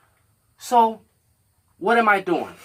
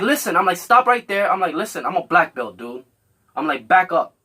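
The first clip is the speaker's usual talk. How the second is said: stern warning. Retold or imitated. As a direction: bark it as a warning to back off. Warning threatening man to stop.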